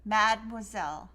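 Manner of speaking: Mademoiselle said firmly, falling at the end; corrected French Mademoiselle, firm fall; French pronunciation. Shown as a demonstration. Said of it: "it's mademoiselle".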